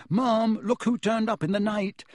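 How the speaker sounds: bright put-on surprise; chirpy innocent announcement; mock excited call. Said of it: "you come bounding downstairs going".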